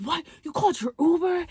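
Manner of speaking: high, loud disbelief; shocked. Retold or imitated. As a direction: squeal it in disbelief. Date is shocked she called Uber.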